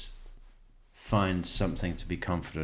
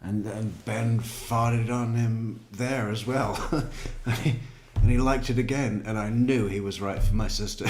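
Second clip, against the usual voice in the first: mock paraphrase; 4 semitones higher, 3 dB louder than usual. Host mocking the suspect's point about the nephews, hammed-up. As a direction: parody his reasoning with a grin. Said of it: "the point I was making is".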